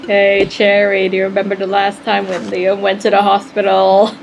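low, casual character voice; a hint of deadpan character; lightly voiced droll doll. Plays Vidya.

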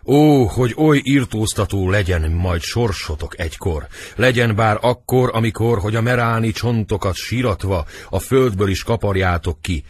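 theatrical outpouring of despair; acted despair. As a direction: declaim a desperate curse on the captors. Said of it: "Kétségbeesve".

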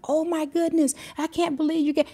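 high-pitched disbelief, acting out his delight; retold excitement. Son getting the hidden gift from his parents, retold excitement. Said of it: "He was so excited".

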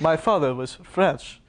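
slow, hammed-up French accent; a light fake French accent; mock French accent. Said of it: "doing a French accent very well".

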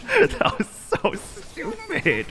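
very high, slow squeak of disbelief; exasperated squeal. Real, not acted. Gamer exasperated after hard fight.

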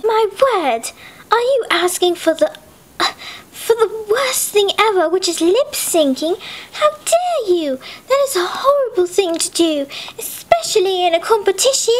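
lightly voiced indignant girl; a hint of an outraged prim girl. The prim girl scolds Mary Grace, lightly voiced. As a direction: scold her for asking to lip sync.

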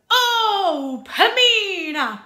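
a prince pining for his love; lovesick hero sigh. Shown as a demonstration. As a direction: swoon over her name, then let it all out. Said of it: "a big, loving, longing sigh at the end".

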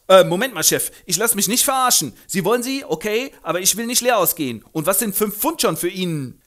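laut, dreist fordernd; polternder Müllkutscher. Acted. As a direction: verlangt Geld für die Tochter. Vater Doolittle fordert. (laut polternder Vater)

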